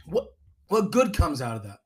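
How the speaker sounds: strained words through a choke; choking on water. Real, not acted. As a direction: speak while choking on a sip. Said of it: "Sorry, I was choking on water".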